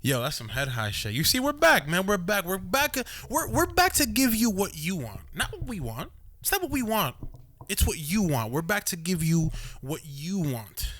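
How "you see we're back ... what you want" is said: hype announcer. Acted. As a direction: pump up the crowd. Hyping up the podcast return.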